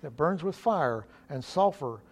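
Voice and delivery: measured, understated Bible reading; solemn lectern reading, falling softly at verse ends; scripture reading. Real, not acted. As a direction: read scripture aloud evenly and quietly.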